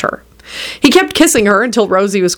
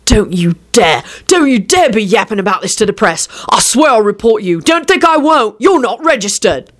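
throaty growl; 3 semitones higher than usual. A narrator's reading. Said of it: "the dog growled throatily".

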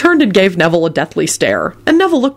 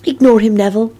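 mildly soothing, higher-pitched; consoling Luna; 5 semitones higher than usual. A narrator's reading. Luna comforts Neville beside her radish, consolingly. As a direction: gently console a friend. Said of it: "Luna said consolingly".

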